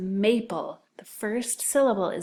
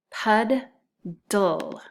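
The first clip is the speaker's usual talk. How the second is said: PUDDLE as two separate beats, "Pud, dull"; split into syllables. Shown as a demonstration. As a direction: say "Pud", pause, then "dull". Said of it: "first syllable is pud".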